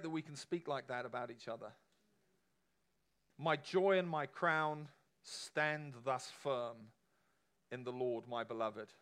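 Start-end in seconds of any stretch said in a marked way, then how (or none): 3.4-8.9 slow, tender, drawn out; tender reading. Real, not acted. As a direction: savor each word slowly. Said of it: "reads verse tenderly".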